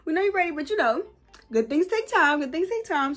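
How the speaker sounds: voice of the universe. Retold or imitated. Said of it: "the universe is like".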